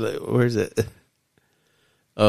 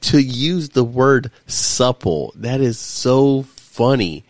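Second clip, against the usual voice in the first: amused laughing; 5 semitones higher, much slower than usual. Real, not acted. Laughing at the word.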